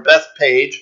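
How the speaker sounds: "Bethpage" said slowly as Beth-payj, with a p; variant pronunciation. Shown as a demonstration. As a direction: say "Bethpage" ending just like the word page. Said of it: "as I heard it pronounced recently".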